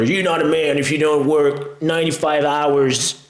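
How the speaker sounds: lightly Southern, pumped-up grind-bro voice; a hint of a Southern hustle bro; mock Southern hustle guru. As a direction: imitate a Southern go-getter bragging. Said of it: "I don't know why my guy is Southern".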